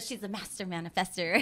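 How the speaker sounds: playful imitation with a lift at the end; Alicia. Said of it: "that's the way she says it".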